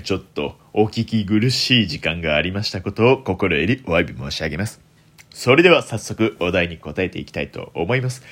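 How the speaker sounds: lightly put-on deep voice; low, smooth voice of a deep-voiced streamer; extremely deep bass voice. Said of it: "この低い声で喋っていたら".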